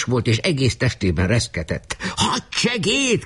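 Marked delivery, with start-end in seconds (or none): 2.2-3.2 long, drawn-out summons in a high pitch; high calling cry. A narrator's reading. Commander calls his adjutant, high drawn-out cry. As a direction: call for your aide, stretching the word. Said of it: "kiáltotta".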